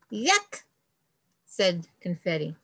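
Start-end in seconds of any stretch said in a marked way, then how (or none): 0.1-0.6 disgusted yuck. Acted. Confetti rejects fruit.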